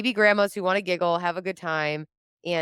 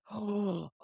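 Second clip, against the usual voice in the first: soft gasp; 4 semitones higher, 7 dB quieter than usual. Retold or imitated.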